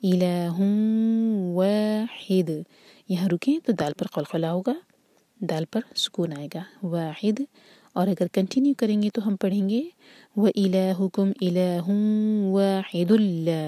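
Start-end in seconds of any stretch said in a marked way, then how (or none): 0.0-2.5 slow, नून of tanwin merged into वाओ through the nose for two seconds; nasal merge. Shown as a demonstration. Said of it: "नाक में आवाज़ ले जाएं". 10.4-13.6 तनवीन joined straight into लाम, no ghunna; merge without nasal. Shown as a demonstration. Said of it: "इदगाम बग़ैर गुन्ना".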